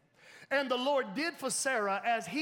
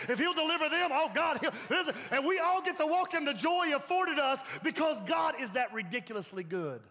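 excited praise; 4 semitones higher than usual. Real, not acted. Preacher building to a peak.

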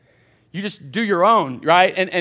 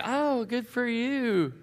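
sarcastic; 4 semitones higher, 7 dB quieter, much slower than usual. Retold or imitated. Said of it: "I'm like".

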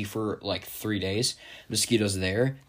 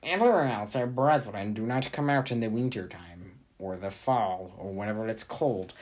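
mosquito voice. Pretend. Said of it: "I gotta get my mosquito voice".

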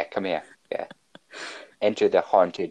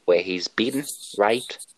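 put-on Australian accent. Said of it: "he is, in fact, from Australia".

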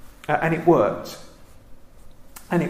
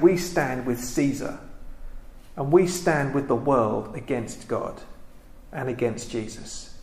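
1 slow solemn paraphrase; 2 semitones lower, 5 dB quieter than usual. Retold or imitated. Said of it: "And they're saying".

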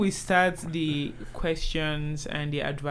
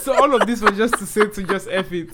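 laughing; 4 dB louder than usual. Real, not acted. Laughing disbelief.

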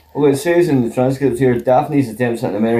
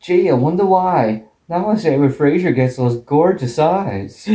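imitated American accent, starting higher; hint of a mock American accent; 3 semitones higher than usual. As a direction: lightly put on an American "gee". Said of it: "does a really good American accent".

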